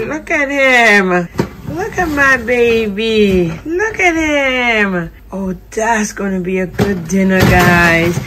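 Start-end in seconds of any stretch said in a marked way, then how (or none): 0.0-5.1 slow, fond cooing; admiring. Real, not acted. Wife showing viewers her husband cooking, slow and fond. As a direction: linger over each word, adoring.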